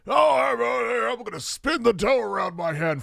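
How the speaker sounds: high hammy Italian pizza chef; Italian chef accent. Pretend. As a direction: ham up an Italian cook. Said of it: "mustachio mustache, make me a pizza pie".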